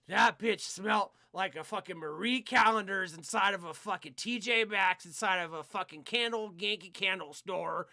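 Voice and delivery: disgusted rant. Retold or imitated. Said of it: "I was like".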